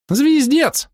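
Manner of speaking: very high, tiny squeaky voice. Acted. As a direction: squeak it out like a little creature. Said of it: "произнёс писклявый голосок".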